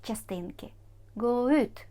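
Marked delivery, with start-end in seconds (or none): 1.2-1.9 teacher stressing the particle ut. Shown as a demonstration. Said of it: "Завжди наголос на оці частинки".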